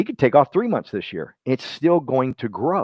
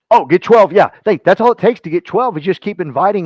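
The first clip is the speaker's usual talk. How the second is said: excited; 6 semitones higher, 7 dB louder than usual. Real, not acted. Excited pep burst to audience.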